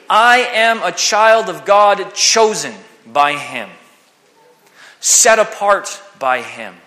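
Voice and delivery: slow declaration. Shown as a demonstration. Declaring identity in God.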